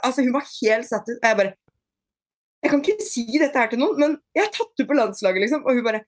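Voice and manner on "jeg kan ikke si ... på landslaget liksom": higher, weepy voice; a hint of sobbing out the big news; retold tearful confession. Telling her sister about the national team, lightly tearful. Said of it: "Jeg bare gråt og gråt og gråt".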